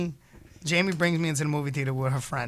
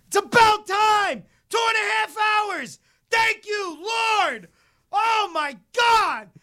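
high, slow shouting at the screen; exasperated shout; 4 dB louder, slower than usual. Retold or imitated. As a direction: yell it like the wait was endless. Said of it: "everyone in the movie starts dying laughing".

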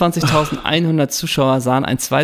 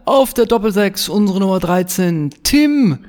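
stadium announcer; 4 semitones higher than usual. Pretend. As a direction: call the player's first name like a stadium announcer. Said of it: "im Stadionsprechermanier".

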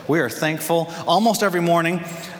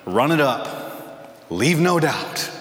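slow deliberate; much slower than usual. Retold or imitated. Coach tells Denzel's character.

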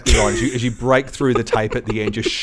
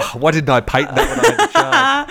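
regretful quote; 12 semitones higher than usual. Retold or imitated. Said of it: "and go".

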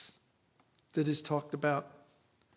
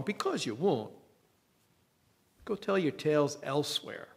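cynical scoffing. Acted. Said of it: "Thomas's cynicism".

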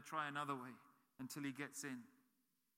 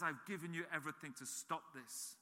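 soft voice of God; 4 semitones lower, 6 dB quieter than usual. Retold or imitated. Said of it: "And God says".

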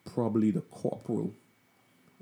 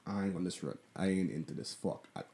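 muttered to himself; 2 semitones lower, 7 dB quieter than usual. Retold or imitated. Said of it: "so I'm like".

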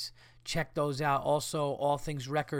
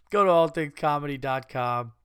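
laughing through it; 5 dB louder than usual. Real, not acted.

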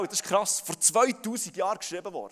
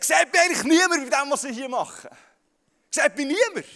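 a hint of a needy ego calling out, higher and louder; crying ego; 5 semitones higher, 5 dB louder than usual. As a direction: lightly voice the ego begging to be seen. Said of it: "schreit dein Ego und sagt".

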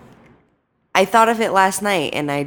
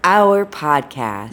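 exaggerated cartoon intonation; 3 semitones lower, much slower than usual. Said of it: "Why are you talking like that?".

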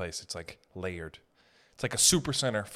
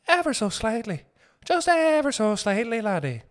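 mock fancy stylist; 10 semitones higher than usual. Comedian playing a fussy stylist describing a haircut, high and dainty. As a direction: coo it like a fussy hairdresser.

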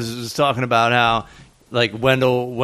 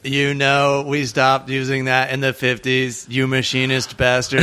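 robot voice. Pretend. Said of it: "pretend like it's Steve the robot".

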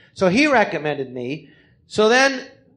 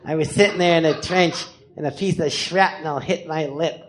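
low, slow lipless war veteran; drawn-out, low weirdo storyteller; Biff Lorenzo; 5 semitones lower, slower than usual. Acted. Veteran tells how he lost his lip, low and slow. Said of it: "he goes".

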